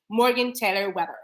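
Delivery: lightly imitating a careful, proper speaker; imitated way of talking. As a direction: mimic her composed, articulated speech. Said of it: "why you sound like this to me".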